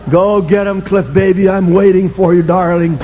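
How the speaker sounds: lightly voiced, coaxing bottle; the vodka purring to him like a lover; seductive vodka voice. Vodka in the glove box calls to the coach, a light coaxing croon. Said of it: "calling to me".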